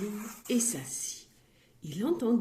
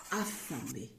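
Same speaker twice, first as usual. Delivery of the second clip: sad, low; 8 semitones lower, 9 dB quieter than usual. A narrator's reading. Going to bed hungry.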